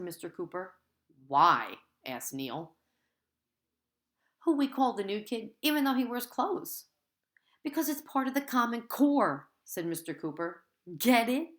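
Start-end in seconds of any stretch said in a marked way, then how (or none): 1.3-1.8 a sharp, loud "Why?". A narrator's reading. New kid blurting question at teacher, loud. 7.6-9.5 higher, louder teacher voice. A narrator's reading. Teacher explaining the joke to the class, higher and louder. 11.0-11.5 higher, louder, fishing for a laugh; eager get it. A narrator's reading. Teacher fishing for laughs from class, high and loud. Teacher pushing his joke.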